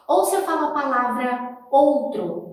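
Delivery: ordinary delivery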